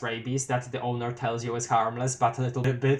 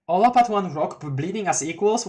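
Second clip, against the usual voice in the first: puzzled echo; 5 semitones higher than usual. Real, not acted. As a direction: reread it in disbelief. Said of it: "Well, that's ominous".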